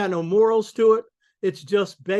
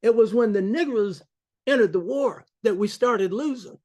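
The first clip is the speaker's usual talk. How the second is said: put-on a light Southern US accent, slightly higher; Southern drawl; 4 semitones higher than usual. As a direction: imitate a Southern white man's accent. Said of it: "as one Southerner said in his accent".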